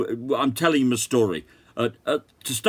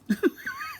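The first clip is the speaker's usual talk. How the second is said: short high-pitched, quiet laugh; a quick, soft, high giggle at the irony; 6 dB quieter than usual. Real, not acted. Amused at irony of free flowers.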